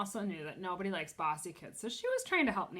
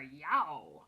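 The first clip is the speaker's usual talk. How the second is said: startled yelp; 4 semitones lower, 5 dB louder than usual. Acted. Bean peeks at lady.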